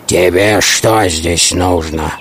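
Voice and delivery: lightly voiced low wolf; menacing wolf. Wolf questions the hare.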